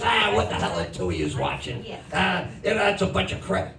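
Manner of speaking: a dismissive dad waving off the show. Retold or imitated. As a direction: scoff at the kids like a dismissive father. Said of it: "dismissive and condescending of shows".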